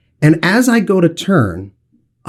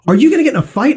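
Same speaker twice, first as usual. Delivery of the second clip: put-on excited kids; 10 semitones higher, much faster than usual.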